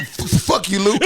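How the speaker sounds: imitating a stutter. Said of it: "he used to stutter".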